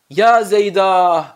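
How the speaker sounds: slow, drawn-out lament call; lamenting a loved one; mournful cry. Shown as a demonstration. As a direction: call out to the dead in grief. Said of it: "üzülerek veya da bazen de ağlayarak".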